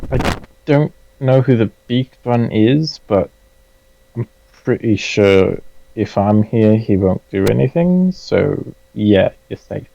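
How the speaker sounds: put-on lightly British-accented reassurance. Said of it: "I've just embraced the British accent".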